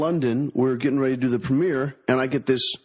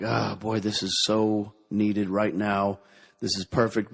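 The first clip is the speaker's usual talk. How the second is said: relieved sigh; 3 semitones lower, slower than usual. Retold or imitated. Tired actors with their Guinness, slow relieved sigh. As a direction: savor it like the first sip. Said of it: "we're like".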